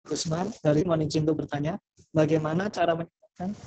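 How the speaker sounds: choppy call audio, words cutting out; radio breaking up. Real, not acted. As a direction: voice dropping in and out on a bad line. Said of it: "Suaranya putus-putus".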